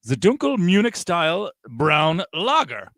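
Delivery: slow, mock German accent; lightly put-on German brewer accent. Reading the beer label for the hosts in a German accent. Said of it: "Please keep speaking in a German accent".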